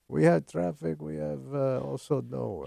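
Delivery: mock Eastern European accent; broken English, heavy Russian accent. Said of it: "Stop doing the Russian accent".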